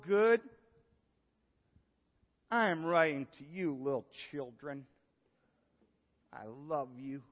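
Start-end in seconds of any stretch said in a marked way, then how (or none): 2.5-7.2 tender. Shown as a demonstration. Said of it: "You get the tone?".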